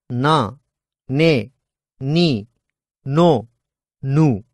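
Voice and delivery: na ne ni no nu each held long and even; slow vocal drill; drawn-out syllables. Shown as a demonstration. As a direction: prolong each syllable with a dropped jaw. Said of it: "slowly repeat the following sounds".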